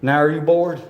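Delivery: loud announcer host voice. Pretend. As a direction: boom it out like an event emcee. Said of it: "That was my D J voice".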